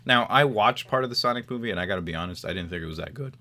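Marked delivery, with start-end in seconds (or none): 2.4-3.4 voice cracking. Real, not acted. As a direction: voice cracks mid-line. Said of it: "Sorry, my voice cracked there".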